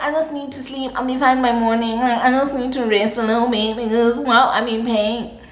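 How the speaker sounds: put-on pitiful sick voice; theatrical suffering. Telling her man she just needs rest, mock suffering. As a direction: feebly play up the pain. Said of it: "I do the, the whole theatrics".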